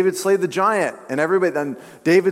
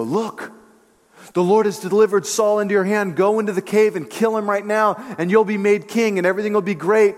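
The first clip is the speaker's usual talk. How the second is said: higher-pitched, acted-out egging on; eager urging; 4 semitones higher than usual. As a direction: urge your leader on like his men. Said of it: "and David's men go".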